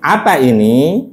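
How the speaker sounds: "Apa ini" drawn out with a rising end; question intonation. Shown as a demonstration. Teacher translates for students, question intonation on "Apa ini". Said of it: "Pakai intonasi pertanyaan".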